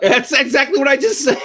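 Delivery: mimicking friend. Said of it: "Dana's like".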